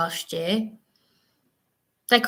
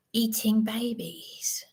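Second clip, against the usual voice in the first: hushed whisper; 5 dB quieter, slower than usual. Retold or imitated. Asking in shocked disbelief.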